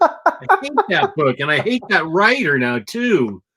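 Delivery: high-pitched, exasperated hate rant; venting hatred. Real, not acted. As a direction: let the loathing burst out, voice jumping up.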